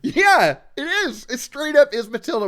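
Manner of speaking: high, loud laughing agreement; real laughter agreeing with her cohost. Real, not acted. Laughing agreement about Matilda.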